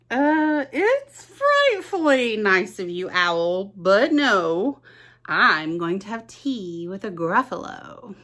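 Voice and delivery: a little mouse politely refusing. Acted. Mouse answers owl.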